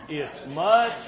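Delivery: words squeezed out through laughter; laughing while talking. Real, not acted. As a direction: try to speak while still laughing.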